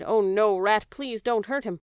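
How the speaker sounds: loud frightened plea; the princess cries out to the rat not to hurt him; crying out. Acted. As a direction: beg the rat, voice rising. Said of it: "The princess cried".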